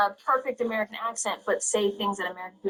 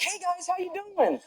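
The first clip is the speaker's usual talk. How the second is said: high, drawn-out friendly hello; high greeting; 12 semitones higher, slower than usual. Retold or imitated. Actor retelling his greeting, high and drawn out. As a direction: greet the crowd in a high, slow voice. Greeting acted in retold anecdote.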